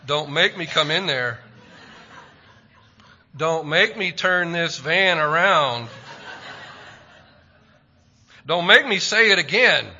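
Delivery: a mother's threat that swells line by line; building mom threat. Retold or imitated. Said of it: "every kid has heard mom say".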